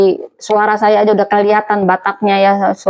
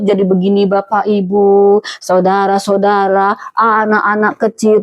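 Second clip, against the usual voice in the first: roundabout gentle; 2 semitones lower than usual. Acted. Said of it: "harus muter-muter dulu, itu pun lembut".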